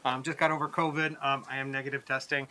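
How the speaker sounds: muffled by a mask; through a face mask. Real, not acted. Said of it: "I'm wearing a mask right now".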